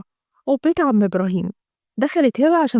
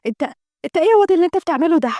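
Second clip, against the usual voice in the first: angry scolding; 5 semitones higher, much faster than usual. Acted. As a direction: snap at him in outrage. Sister scolds brother.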